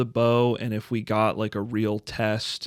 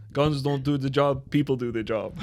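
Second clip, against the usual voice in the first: Maxime Franz; 2 semitones higher than usual. Acted. Quoting the show's host to friends, light impersonation. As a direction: deliver the catchphrase in lightly imitated character. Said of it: "he does the Maxime Franz".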